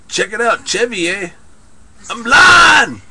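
hammed-up Canadian rising to a yell; bad Canadian accent. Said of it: "It's a bad accent".

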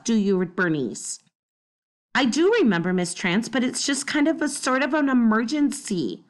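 lively read-aloud voicing each character; story narration. A narrator's reading. Teacher reading a chapter book to the class, animated storytelling.

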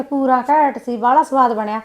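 slow, sarcastic parroting of his praise; mocking imitation. Wife mocks husband's praise of others' pasta, slow sarcastic parroting. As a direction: echo his words back slowly with a sneer. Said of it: "ਉਹੀ ਗੱਲ ਆ ਕਿ".

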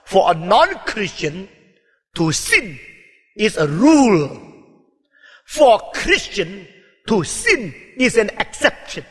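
drawn-out, weighty English maxim; slow emphatic English. Shown as a demonstration. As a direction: spell the rule out in English, word by word. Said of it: "saya memakai bahasa Inggris".

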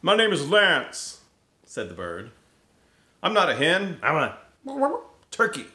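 high, loud, puffed-up bird voice; boastful turkey announcing himself; pompous turkey. Acted. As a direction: strut it out like a proud turkey. Lance the turkey introduces himself.

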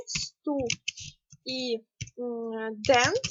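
сту and дент said apart with a pause; split into syllables. Shown as a demonstration. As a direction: break студент into сту and дент. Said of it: "два склади". (по складах: сту – дент)

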